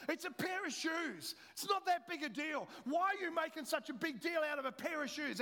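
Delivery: a hammed-up defensive protest; defensive retort. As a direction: push back like a husband caught out over his shoes. Snapping back at wife about shoes.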